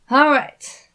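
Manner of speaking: loud eager exclamation; exclaimed. A narrator's reading. Thomas exclaims, turning toward the stairs, eager. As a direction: snap into action with it. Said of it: "Thomas exclaimed".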